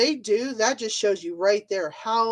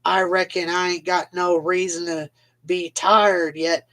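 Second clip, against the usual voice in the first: mock Southern accent. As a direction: mimic a politician's put-on Southern accent. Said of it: "they use that accent".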